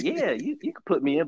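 halting, unsure yes; a player nervously saying yes to the coach; hesitant. Retold or imitated. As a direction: agree reluctantly, holding back a little. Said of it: "but he said it hesitantly".

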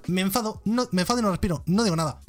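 mock childish refusal. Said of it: "Pero no digas".

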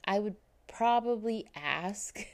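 hushed whisper, half to herself with a laugh; whispered aside. Real, not acted. Vlogger musing on how she'd ask, whispered. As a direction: whisper it like a private confession.

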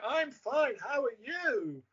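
high swooping lilt, last word stretched; caught sing-song tune. Retold or imitated. Actor answering in his co-star's tune, high sing-song. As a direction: echo his silly tune back. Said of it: "his kind of tune".

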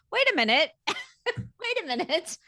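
high-pitched, incredulous double take; squeaky put-on astonishment; mock disbelief. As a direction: stretch it out in hammed-up disbelief. Acted reaction to newspaper article.

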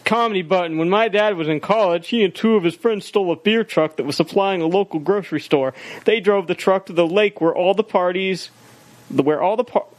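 lightly put-on email-reading voice; mild performed read of a listener's letter. Shown as a demonstration. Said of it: "Yeah, email voice. Do it".

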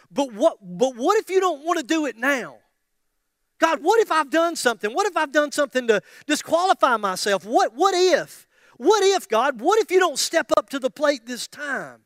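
high, loud, anxious what-ifs to God; acted worry. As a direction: escalate the worried pleading, repeating yourself. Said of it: "worry tends to, to make you ask the question".

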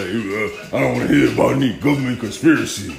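half-hearted mock of a zoned-out guru type; mock spacey meditator. A friend who wants to meditate it away, mocked dreamily. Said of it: "he just thought".

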